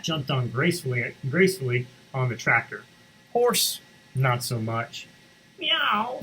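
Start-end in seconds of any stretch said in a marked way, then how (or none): 5.6-6.2 a high cat meow. Acted. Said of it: "said the cat".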